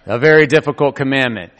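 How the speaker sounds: lightly imitated sage little creature; Yoda. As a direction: pronounce it like a wise master, just a hint of impression. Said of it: "like Yoda was talking all of a sudden".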